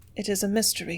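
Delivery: low hoarse voice. Reading a character's reluctant reply in a story: low hoarse voice. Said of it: "she said in a low, hoarse voice".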